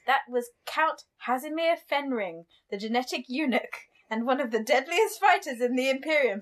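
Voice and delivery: lightly put-on posh reading; a hint of a posh lady narrating; posh woman. Host reading about the Count, light mock-posh woman. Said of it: "reading it as a posh woman".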